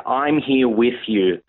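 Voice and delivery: very slow, gentle and tender; slow it right down, comforting; gentle reassurance. Retold or imitated. Repeats Jesus's line, slowed.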